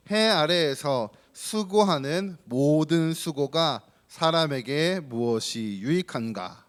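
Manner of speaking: slow, measured Bible recitation; reading scripture aloud. Real, not acted. Pastor leads children in scripture, slow reading aloud. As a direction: read the verses out slowly, as if leading a group. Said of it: "큰 목소리로 같이 읽어봅시다".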